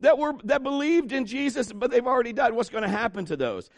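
high, worried pleading, easing at the end; mock panic, pitched well above normal; acted-out anxious questioning, high and urgent; freaking out. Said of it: "they're freaking out".

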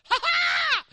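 high, loud joyful whoop; triumphant laugh. Retold or imitated. Daughter finds she can ride and whoops with joy. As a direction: crow with delight. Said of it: "she's like".

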